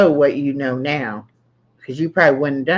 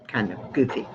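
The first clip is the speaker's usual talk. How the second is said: laughing; 8 semitones higher, 7 dB quieter than usual. Real, not acted. Laughing at husband.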